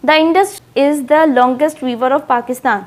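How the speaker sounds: slow, word by word, like dictation; slow example sentence. Shown as a demonstration. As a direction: read the example out slowly for students. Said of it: "दरिया सिंध पाकिस्तान का तवील तरीन दरिया है".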